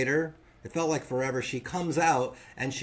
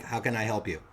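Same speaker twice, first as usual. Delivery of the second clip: no affect; 5 semitones lower than usual. Retold or imitated. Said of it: "no affect, very professional".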